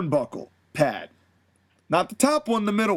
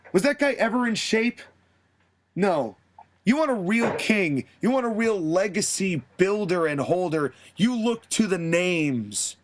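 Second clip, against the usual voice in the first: cocky wrestler promo. Retold or imitated.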